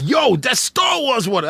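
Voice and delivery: recounted wide-eyed excitement; amazed reaction. Retold or imitated. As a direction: exclaim it like a thrilled discovery. Retelling his amazed reaction to mom.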